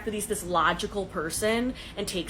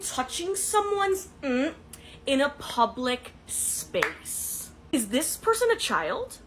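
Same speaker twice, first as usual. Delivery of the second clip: incredulous; 5 semitones higher, slower than usual. Retold or imitated. Incredulous retort to the man.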